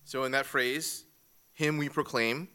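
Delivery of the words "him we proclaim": "Him" leads, lifted and weighted; stress on him. Shown as a demonstration. Teacher showing the class the emphasis falls on "Him". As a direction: land the weight on "Him" up front. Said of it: "the emphasis is not on we".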